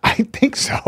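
soft answer broken up by laughing; laughing admission. Real, not acted. Comic admits to friends he might be gay, laughing. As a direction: giggle through the words.

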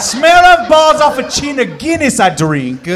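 hammed-up Irish accent. Contestant defending their Irish accent, hammed-up Irish. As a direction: put on a broad Irish brogue, badly.

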